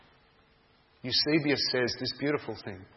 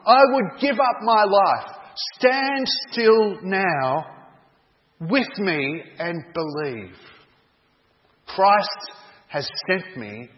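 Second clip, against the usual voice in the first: higher and louder, slowing into a steady plea; pleading cry slowing down; 6 semitones higher, 6 dB louder, slower than usual. Acted. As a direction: plead with him to stand still and believe. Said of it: "cried John".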